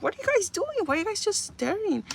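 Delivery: replaying her shout at people just staring; retold outraged yell. Yelling at staring bystanders.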